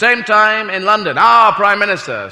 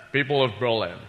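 lower, Scottish-tinged grand speech; softer, lower mock Connery oration; Sean Connery doing Kennedy; 3 semitones lower, 4 dB quieter than usual. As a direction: play a Scottish film star playing a president. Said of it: "Sean Connery doing, uh, President Kennedy".

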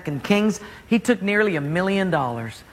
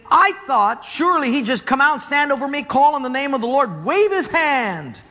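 furious; 6 semitones higher than usual. Retold or imitated. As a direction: rant it out like an offended general. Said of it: "he was furious".

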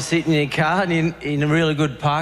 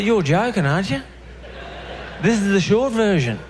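disbelief; 6 semitones higher than usual. Retold or imitated. Disbelieving inner thought.

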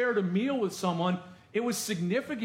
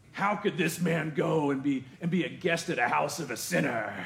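critical crowd. Retold or imitated. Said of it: "that's probably how they said it".

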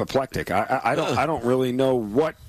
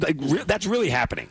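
sarcastic; 3 semitones higher than usual. Shown as a demonstration. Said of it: "I was being sarcastic".

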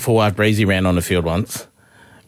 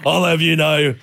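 higher, hammed-up affronted retort; mock indignation; 6 semitones higher than usual. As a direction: play the offended lady. Acts indignant retort to sir.

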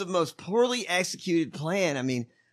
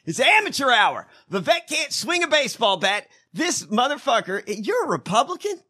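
angry rant; 5 semitones higher, 3 dB louder than usual. Real, not acted. Ranting about amateur plotters.

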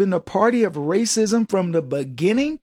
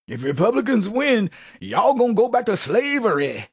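mock blackese; 3 semitones higher than usual. Democrats pandering to black voters, in lightly mocking folksy dialect. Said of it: "They gotta speak in blackese".

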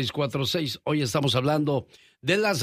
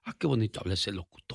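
oyente embelesada; 5 semitones lower, 5 dB quieter, faster than usual. Retold or imitated. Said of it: "para que usted diga".

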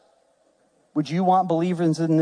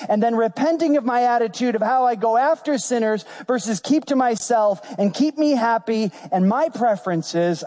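raised-pitch, insistent preacher delivery; impassioned preaching; 6 semitones higher than usual. Acted. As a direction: press each point home to the congregation.

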